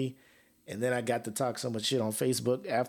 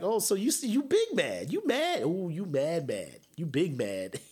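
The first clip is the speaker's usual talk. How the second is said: teasing; 2 semitones higher than usual. Retold or imitated. He teases his sore-loser cousin about the game, teasing. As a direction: rub it in, mock-gleeful.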